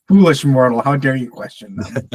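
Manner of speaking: booming mock dark lord voice; loud, lordly scolding of a mortal. Mocking a godlike Games Workshop.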